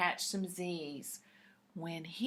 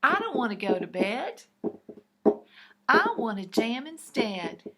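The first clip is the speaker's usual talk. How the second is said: loud, fast protest; stubborn platypus; 3 semitones higher, 8 dB louder, faster than usual. Acted. Gus the platypus refuses bed, loudly. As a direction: push back like a stubborn kid. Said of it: "said Gus the platypus".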